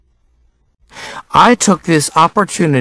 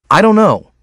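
higher-pitched snappy retort; a quick flare of irritation, pitched up; snapped; 6 semitones higher than usual. A narrator's reading. Boy to classmate who asks about his summer, snapped. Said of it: "I snapped".

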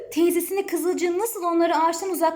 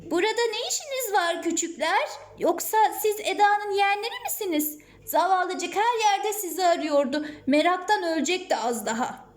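lightly voiced farmer's wife, raised pitch; a higher-pitched, lively woman addressing children; 5 semitones higher than usual. Farmer's wife finding the lost nephews, lightly voiced concern.

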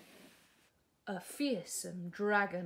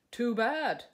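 a louder curt brush-off; dismissive prince; 3 semitones higher, 8 dB louder than usual. Acted. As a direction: wave her wish away. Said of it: "said Prince".

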